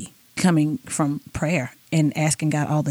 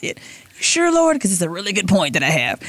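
mock pleading. She pleads with God.

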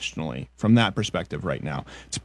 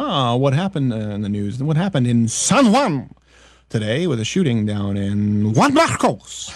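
a light mock Spanish accent, rolling the place names. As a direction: lightly imitate a guy faking a Spanish accent. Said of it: "that Spanish guy who's like".

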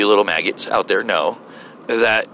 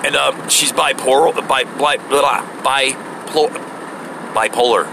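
bumbling applicant; 4 semitones higher, slower than usual. Retold or imitated. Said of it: "He goes".

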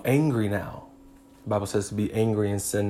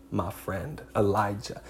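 tender address; 6 dB quieter than usual. Real, not acted.

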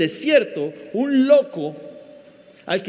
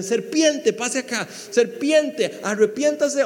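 mock summons; 4 semitones higher, slower than usual. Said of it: "que le digan".

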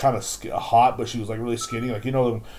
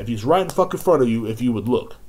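raised, insistent comeback; acted-out sharp retort; 4 dB louder than usual. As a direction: repeat the telling-off with exasperation. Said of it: "I said just like that".

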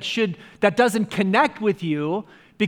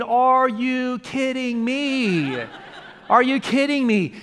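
laughing disbelief; 4 semitones higher, slower than usual. Retold or imitated. Mocking the music, laughing.

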